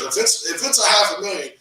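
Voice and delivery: high, loud, fast insistence; a coach shouting urgent orders at his client, high and fast; convinced, fired up. Retold or imitated. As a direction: sell it like a coach who won't take no. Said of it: "That's how convinced he was".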